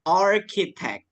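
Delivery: "architect" slowly, with CH as a K; CH dibaca K. Shown as a demonstration. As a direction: say "architect" with a clear hard K for CH. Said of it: "C H-nya kita baca K". ("architect" pelan, CH diucapkan K)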